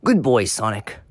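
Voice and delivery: deep villain voice. Acted. Eggman villain gloating.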